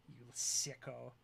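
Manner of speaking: drawn-out mock disgust; slow teasing insult. Real, not acted. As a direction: stretch it out, teasing. Teasing a chatter.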